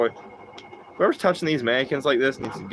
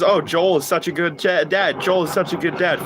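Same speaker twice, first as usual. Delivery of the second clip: mocking everyone; 5 semitones higher than usual. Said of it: "everybody says".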